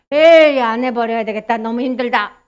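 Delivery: mock throwing in the towel; giving up. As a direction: grumble as if fed up with trying. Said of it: "이러지 말라는 거야".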